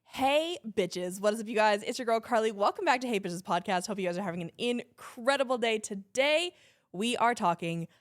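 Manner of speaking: punchy, upbeat podcast intro; big show-opening energy, trailing into blahs; inner radio host. Shown as a demonstration. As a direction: hit it like a hyped radio host. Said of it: "my inner radio host in me".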